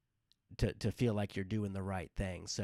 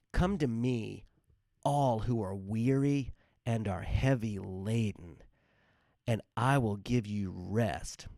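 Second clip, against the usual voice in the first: scripture reading. Acted. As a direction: proclaim the words as a gentle invitation. Quotes Jesus from Matthew.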